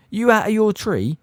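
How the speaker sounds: high, loud shocked yell. Acted. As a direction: yell it out in alarm. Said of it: "yelled Stan".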